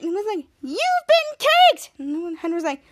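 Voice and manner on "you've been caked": high, loud, drawn-out crowing; triumphant announcement. Retold or imitated. Prankster to the victim, high drawn-out gloating. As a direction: stretch it out as a prank reveal.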